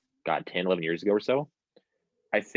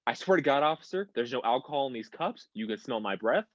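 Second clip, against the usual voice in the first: higher-pitched, over-earnest pleading; mock freaking out; 5 semitones higher than usual. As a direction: imitate a panicked friend defending himself as if on trial. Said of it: "he starts freaking the fuck out".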